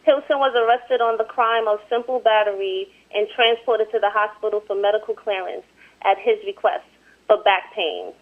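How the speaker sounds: measured, even article reading; amateur newsreader delivery; news report read aloud. Real, not acted.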